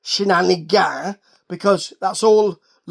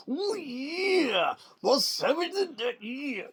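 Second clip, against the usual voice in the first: soft, raised innuendo voice; suggestive mock; 6 semitones higher, 10 dB quieter, much slower than usual. Recapper mocking Page's savage claim with soft innuendo. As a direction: tease the word savage lewdly.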